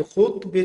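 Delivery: خطبة said khutba, u after kh; short u in the first syllable of خطبة; damma on the kha. Shown as a demonstration. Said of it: "بالضم".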